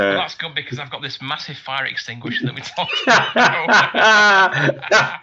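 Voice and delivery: put-on slow, loud Eastern European accent. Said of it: "my Eastern European accent is very".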